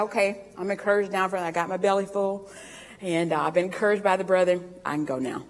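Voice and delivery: Paul patting a full belly, content to leave; full-bellied Paul. Retold or imitated. Paul after eating with the brethren, content and quiet. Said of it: "And he said".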